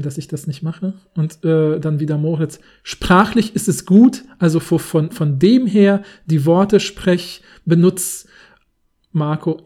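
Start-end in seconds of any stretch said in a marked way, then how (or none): 2.8-8.3 loud, slow, searching critic; emphatic director. Pretend. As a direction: grope for words, loud and slow. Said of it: "in der Art vorzulesen".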